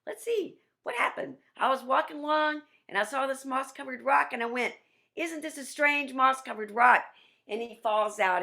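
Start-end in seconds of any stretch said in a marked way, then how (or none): 0.1-7.0 high, loud, bewildered spider voice; dizzy Anansi. Acted. Anansi just woken up, telling the class in a high dazed voice. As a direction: puzzle it out in a high dazed trickster voice. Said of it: "and he's going".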